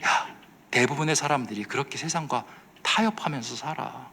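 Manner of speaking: softened voice, dropping away at the end; quietly insinuate, as a mock tempter; coaxing whisper. The world tempting a believer to compromise, softened mock whisper. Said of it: "그리고 동시에 속삭입니다".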